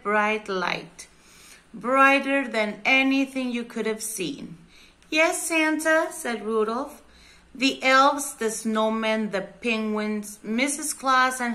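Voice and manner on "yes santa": higher-pitched answer to a call; reply in a raised, slightly acted voice; lightly voiced reindeer. A narrator's reading. Rudolph answers Santa's call.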